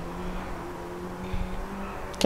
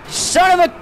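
sharp high yelp of frustration, higher; higher frustrated outburst; cut-off curse; 8 semitones higher, 3 dB louder than usual. Real, not acted. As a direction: bite the curse off halfway. Frustrated gamer crashes in race.

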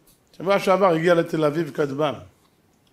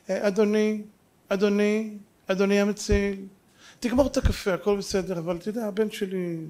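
mock polite mother; 5 dB quieter than usual. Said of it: "מה היא אומרת לו".

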